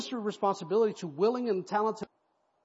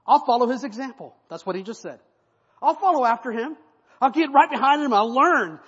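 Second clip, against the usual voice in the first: high, loud eager promises; young runner pleading with Joab; pleading Ahimaaz; 7 semitones higher, 12 dB louder than usual. Acted. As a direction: insist you will learn, almost begging.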